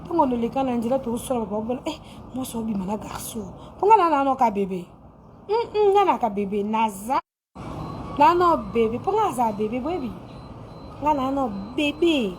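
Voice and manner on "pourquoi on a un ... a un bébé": put-on babyish lisping voice; baby talk. Shown as a demonstration. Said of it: "Je parle comme un bébé".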